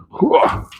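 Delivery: breathy grunt climbing over; effort grunt. Real, not acted. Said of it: "all the grunting and groaning".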